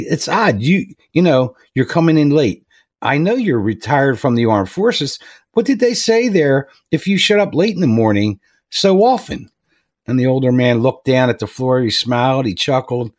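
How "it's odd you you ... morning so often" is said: a boss gently chewing out a late worker; stern boss. Retold or imitated. Boss telling Charlie he keeps arriving late, mildly stern and raised.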